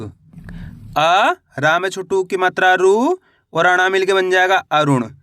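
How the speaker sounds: अ and रु drawn out separately, then अरुण blended; syllable-by-syllable spelling. Shown as a demonstration. Teacher showing beginners how to read अरुण, syllable by syllable. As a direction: sound out अरुण piece by piece. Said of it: "एक एक अक्षर का उच्चारण करके".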